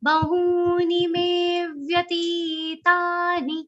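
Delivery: "me" held long, then a light stress on "vyatitani". Shown as a demonstration. Teacher showing long and short syllables in a Gita verse. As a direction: stretch "me", touch the "vya". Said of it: "Me is a long sound ... subtle aghat of va".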